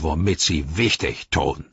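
lightly voiced sneering orc; a touch of low orc scorn; Ugluk. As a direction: belittle them offhandedly. Ugluk mocks the Nazgul.

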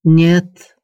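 heated refusal. A narrator's reading. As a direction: cut her off sharply. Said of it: "отрезал Амир с горячностью".

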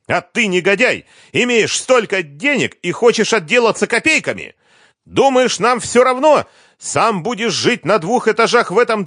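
very high, loud insulting scream; shrieking abuse. A narrator's reading. Liza insults him, shouting.

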